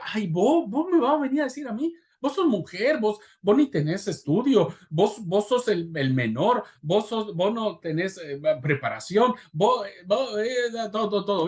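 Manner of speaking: high, scornful belittling voice; mocking critic. People telling you that you are unfit, in a high sneering voice.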